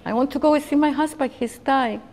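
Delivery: loud, high, hurried pleading; crying plea. Retold or imitated. Mother pleading with soldiers through tears, loud and urgent. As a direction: beg to reach a dying husband. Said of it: "then I started crying".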